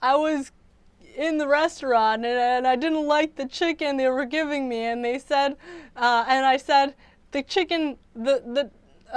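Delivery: a touch of tearful retelling; imitating fake crying. Vlogger retelling Terrence's crying video, lightly tearful. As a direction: mildly voice his staged sob story. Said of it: "he's basically like".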